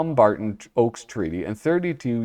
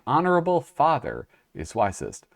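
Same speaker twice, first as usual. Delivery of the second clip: put-on Japanese accent; 4 semitones higher than usual. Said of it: "when I tried to do the accent".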